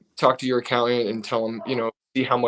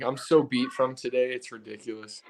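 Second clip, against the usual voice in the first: fading, sleepy and worn out; tired voice; 5 dB quieter than usual. Real, not acted. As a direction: trail off drowsy after a yawn. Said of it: "I was yawning".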